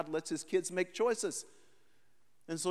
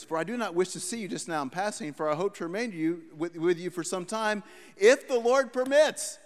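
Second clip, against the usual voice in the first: scripture reading. Acted. Reads verse, final words stretched.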